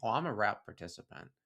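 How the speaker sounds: ordinary talk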